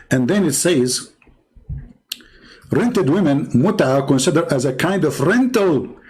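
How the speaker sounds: ordinary delivery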